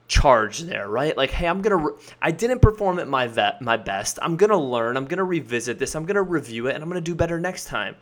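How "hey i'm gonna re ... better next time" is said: reflective, constructive. Shown as a demonstration. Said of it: "more intellectually reflective".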